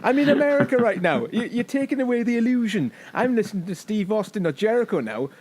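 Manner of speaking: high-pitched indignant protest; exasperated mock rant. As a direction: whine at the advert for spoiling the illusion. Acted outburst at British podcast adverts.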